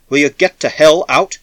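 a desperate shout to make her leave; angry shout. A narrator's reading. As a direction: yell at her to get out.

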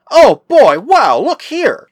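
high, loud, drawn-out exclamation; sudden excited cry. A narrator's reading. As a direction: burst out as if spotting something amazing. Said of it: "he suddenly cried".

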